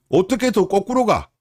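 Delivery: can't believe it went backwards; incredulous. Real, not acted. Indignant at reversed cost figures.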